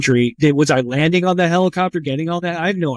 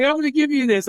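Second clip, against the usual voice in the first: much higher, laughing mock French medic's line; 11 semitones higher, faster than usual. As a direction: play the medic's offer for a laugh, pitched up. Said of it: "he's like".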